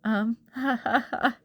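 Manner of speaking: forced nervous ha ha ha; awkward laugh. Acted. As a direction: laugh to fill the silence. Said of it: "Then I laughed awkwardly".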